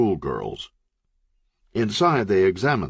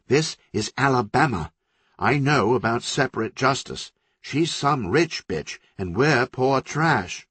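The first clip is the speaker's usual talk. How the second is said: urgent warning; 6 semitones higher than usual. Acted. City warns Country urgently.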